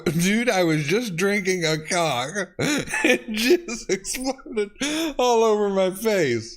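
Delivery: rereading it, still laughing; laughing while reading. Real, not acted. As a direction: read it again through the giggles.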